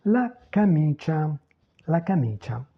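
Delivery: "la camicia" with a long ee in mi; careful Italian model, "camicia" as ca-MEE-cha; lengthened stressed vowel. Shown as a demonstration. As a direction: lean on the MI of "camicia". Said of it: "toujours l'allongement vocalique".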